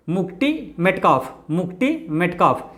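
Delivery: slow "muk-Ti" in मुक्ति, matching the T of मेटकॉफ; altered mnemonic pronunciation. Shown as a demonstration. Teacher links answer to memory trick, slow retroflex मुक्ति. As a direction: drill मुक्ति slowly with a retroflex T. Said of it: "मुक्ति पढ़ना".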